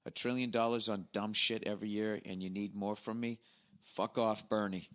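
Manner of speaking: slow, deliberate read-out; reading email aloud. Acted. Host reading a listener's election email aloud, measured read-out. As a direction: read a listener's letter word by word, slowly.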